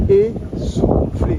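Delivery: slow, wheezy whispered gasp. Real, not acted. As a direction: wheeze the word out breathlessly. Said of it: "je suis essoufflé".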